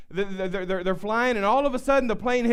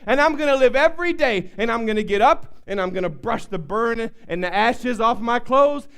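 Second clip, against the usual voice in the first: louder declaring preacher climax; the preacher claims victory before the congregation; preaching; 3 dB louder than usual. Acted. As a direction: shout the victory to the church.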